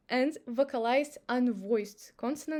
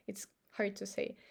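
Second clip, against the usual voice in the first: whisper; 3 semitones lower, 7 dB quieter than usual. Real, not acted. Whispered aside.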